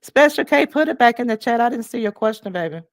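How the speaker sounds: loud, high call to a viewer. Real, not acted. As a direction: call her name out loud. Calling out to a chat viewer.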